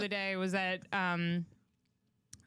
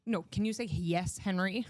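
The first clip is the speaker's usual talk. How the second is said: put-on child parroting the mother's correction back at her; Henry mimics Indira's "say yes" back at her, smugly; mimicking mom's correction. Kid copying mom's correction, obnoxious. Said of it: "And he goes".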